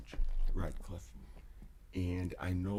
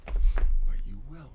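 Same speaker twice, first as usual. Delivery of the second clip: louder, slow and firm; firm, louder promise; emphatic; 4 semitones higher, 14 dB louder, slower than usual. Real, not acted. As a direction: land it hard and slow.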